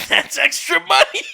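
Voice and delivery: laughing through the words; cracking up mid-sentence. Real, not acted. Laughing at the kickback joke.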